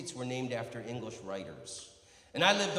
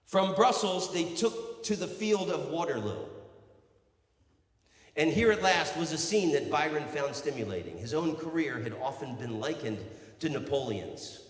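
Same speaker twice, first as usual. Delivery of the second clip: projected, measured recital; declaimed book reading; 2 semitones higher, 6 dB louder than usual. Acted. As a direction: read it out grandly to a crowd. Reads aloud from a Byron biography.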